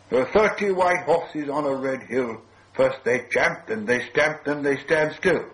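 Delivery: slow, measured riddle with a lilt; riddle recital. A narrator's reading. Bilbo posing his riddle to Gollum, measured recital. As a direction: recite it like a rhyme, drawing out the last words.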